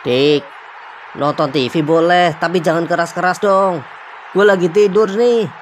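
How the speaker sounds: annoyed call. Acted. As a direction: shout over the TV, fed up. Woken brother complains about TV. (teriakan kesal)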